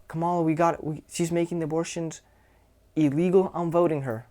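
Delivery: dismissive mock agreement. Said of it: "the same effect by just looking away".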